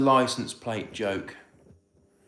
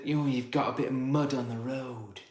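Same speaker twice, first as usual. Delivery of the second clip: mock complaint; 6 dB quieter than usual. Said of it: "They all kicked off and said".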